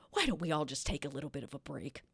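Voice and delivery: low, hushed whisper after a sigh; tightly restrained. Acted. Woman calling a break after stomping the letter, restrained whisper. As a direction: softly suggest it, holding the temper down.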